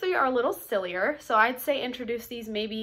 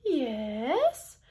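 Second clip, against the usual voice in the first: British accent. Shown as a demonstration. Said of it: "You could do a British accent".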